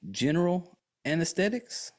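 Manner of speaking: anesthetics? lifted high into a question; questioning rise. Retold or imitated. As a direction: ask "General anesthetics?" with a puzzled upward lilt. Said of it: "asks him in a question mark way".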